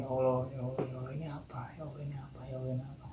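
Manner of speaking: very soft repeated plea; stunned, hushed praying to oneself; gumam ketakutan. Retold or imitated. Stunned, praying to himself in fear. (gumam lirih ketakutan)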